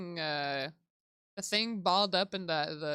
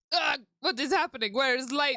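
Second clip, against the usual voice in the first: higher, louder startled crewman voice; alarmed crewman; 6 semitones higher, 4 dB louder than usual. Acted. Crewman reacting to the lights going off, alarmed. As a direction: act thrown by sudden darkness.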